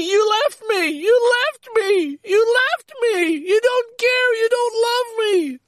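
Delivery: high, desperate wail of an abandoned coat; coat screaming. Pretend. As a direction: scream it like the coat is crying out after you. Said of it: "it's like my coat screaming".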